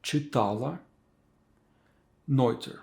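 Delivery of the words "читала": Читала with the middle syllable та stressed; stress on first а. Shown as a demonstration. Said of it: "Emphasis on letter A".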